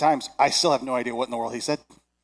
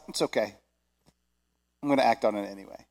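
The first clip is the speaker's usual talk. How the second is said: lower, easy reassuring tone; calm reassurance; 4 semitones lower, 4 dB quieter, faster than usual. Acted. God reacting to people who missed it, calmly reassuring. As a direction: reassure them gently and simply.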